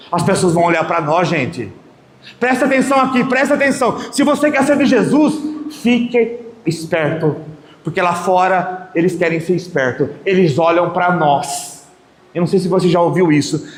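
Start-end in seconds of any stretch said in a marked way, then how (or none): 2.4-7.4 pitched up and pushed, calling the church to attention; rally them to listen; fervent preacher's call; urgent preaching. Real, not acted. Preacher urging the congregation.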